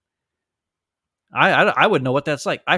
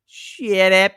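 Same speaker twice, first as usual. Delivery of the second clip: curt dismissal; 4 semitones higher, 6 dB louder than usual. Retold or imitated. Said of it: "He said".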